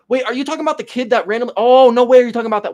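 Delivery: fast, eager rush of hype; quick excited blurt; mock excitement. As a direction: jump in all excited, talking fast. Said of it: "I got so excited for no reason".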